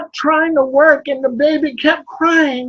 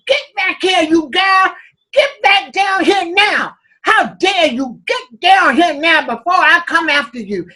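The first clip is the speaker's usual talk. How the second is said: angry yelling; 3 semitones higher, 4 dB louder than usual. Acted. Overseer and driver yelling.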